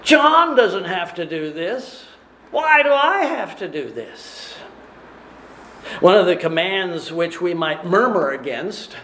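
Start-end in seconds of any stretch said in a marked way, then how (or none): 0.0-4.6 petulant whine; whiny voice. Acted. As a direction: whine it like a sulking child. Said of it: "They say with a whiny voice".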